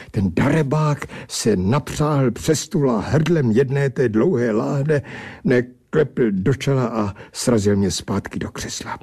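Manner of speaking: ordinary delivery, nothing marked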